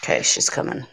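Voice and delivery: whispering. Real, not acted. Warning co-host is coming.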